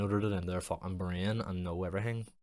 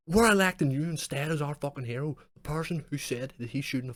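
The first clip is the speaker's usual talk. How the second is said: mock cheer; 8 semitones higher, 8 dB louder than usual. Mocking crowd crowning the troll.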